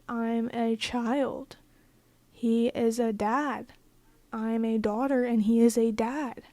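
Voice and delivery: slow, deliberate, each word weighed; slow emphatic spelling-out. Real, not acted. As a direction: spell it out slowly, as if obvious. Spelling out the obvious.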